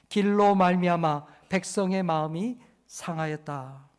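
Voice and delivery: slow, measured verse reading; solemn Bible verse read slowly; scripture reading. Acted.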